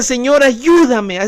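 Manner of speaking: slow, pleading cry; desperate plea. Retold or imitated. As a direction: beg slowly. (súplica desesperada)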